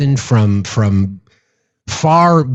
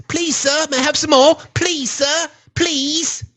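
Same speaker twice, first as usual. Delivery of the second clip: hammed-up little beggar voice; begging orphan; 13 semitones higher, slower than usual. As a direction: plead like Oliver Twist for gruel. Mock beggar begging for more.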